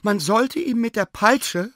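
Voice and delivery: high, indignant complaint. A narrator's reading. Sina complains to the professor about the dog, indignant. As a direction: demand punishment, outraged. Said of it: "sprach Sina empört".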